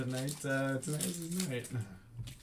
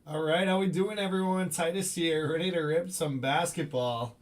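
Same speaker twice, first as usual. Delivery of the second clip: rapid hype card breaking; 5 semitones higher, 5 dB louder than usual. Real, not acted. Stream host opens card break.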